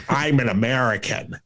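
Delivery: lightly mock a Brit faking an American accent; mock Cumberbatch American. Mocking Benedict Cumberbatch's American accent, lightly voiced. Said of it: "weird voice he does when he has to play an American".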